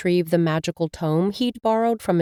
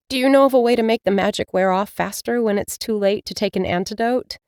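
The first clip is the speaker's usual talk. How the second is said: higher, fast hopeful question; young witch; 3 semitones higher than usual. Acted. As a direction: rush out the plea. Mila asks her cat.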